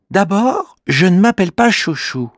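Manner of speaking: high small voice, indignant; offended little creature. Acted. Kimamila correcting the girl, indignant little creature voice. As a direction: correct her firmly. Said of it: "répond Kimamila".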